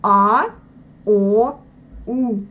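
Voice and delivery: full Russian A, O, U; Russian vowels. Shown as a demonstration. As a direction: draw out A, O, U from the back. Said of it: "les voyelles russes".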